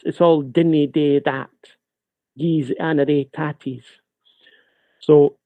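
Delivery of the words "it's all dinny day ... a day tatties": imitating Scottish speech for ridicule; mock Scottish accent. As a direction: put on a broad Scots accent. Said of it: "criticizing and laughing at the accent".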